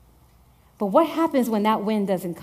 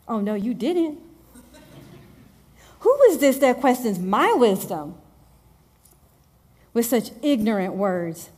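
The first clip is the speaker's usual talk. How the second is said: sassy God voice. Retold or imitated. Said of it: "the way in my theology God talks".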